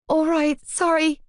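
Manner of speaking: high squeaky apology; squeaked. A narrator's reading. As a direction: squeak it out in a fluster. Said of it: "I squeaked".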